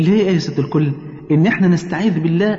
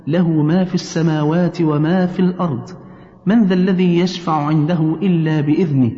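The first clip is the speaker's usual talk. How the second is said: very slow, measured verse recitation; Quran recitation; slower than usual. Shown as a demonstration. Leading mother through Ayat al-Kursi, slow recitation. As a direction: recite each phrase slowly with long drawn-out vowels.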